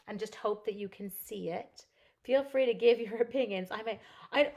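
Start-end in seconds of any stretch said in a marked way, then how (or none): 2.2-3.7 laughing. Real, not acted. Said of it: "can I say that in class".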